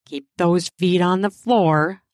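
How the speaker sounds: mild firm warning. Acted. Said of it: "I warned".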